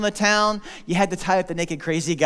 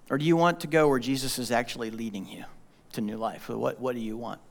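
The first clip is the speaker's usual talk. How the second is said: much softer, lower, intimate question; quiet appeal; 6 semitones lower, 7 dB quieter than usual. Real, not acted. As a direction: draw them in close and quiet.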